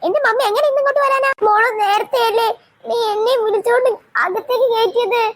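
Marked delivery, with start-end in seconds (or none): 1.5-5.2 crying. Acted. Mother shut out by children.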